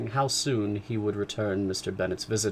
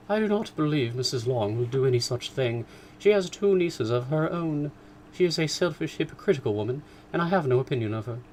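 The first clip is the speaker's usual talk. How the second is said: higher, fussy, indignant mother; mother complaining about Missus Long; 5 semitones higher than usual. Acted. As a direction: huff about the neighbour. Mrs Bennet voiced.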